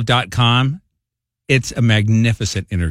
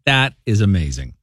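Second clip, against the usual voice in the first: normal talking voice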